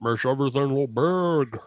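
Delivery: hammed-up French giant voice; French-accented giant. Riffing on the tiny can, mock French accent. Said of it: "best French accent I've ever heard you do".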